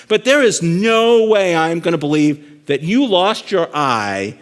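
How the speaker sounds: loud, high, slow mock outrage; exasperated disbelief. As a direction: draw out the disbelief, hammed up for a joke. Joke's listener protests in disbelief.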